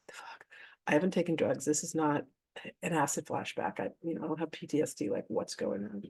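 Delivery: hushed, bewildered aside to oneself; inner thought. Retold or imitated. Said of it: "And I'm thinking".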